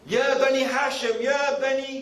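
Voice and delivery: imitating a call from a hilltop; calling everybody. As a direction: call out to the tribes. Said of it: "he's calling everybody".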